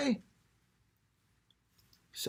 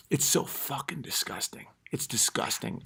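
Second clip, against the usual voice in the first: whispered disgust; 7 dB quieter than usual. Real, not acted. Comic whispering disgust to avoid waking kids.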